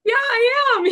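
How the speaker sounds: high, loud, tearful "Yeah, I am"; through tears. Retold or imitated. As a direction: answer while half-crying. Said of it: "even though I'm bawling".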